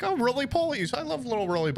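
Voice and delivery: high, gushing delight over little bugs. Retold or imitated. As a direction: coo with sudden high joy.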